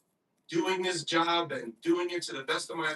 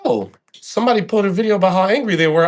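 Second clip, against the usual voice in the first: mock angry quote; 11 dB louder, faster than usual. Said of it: "So pissed".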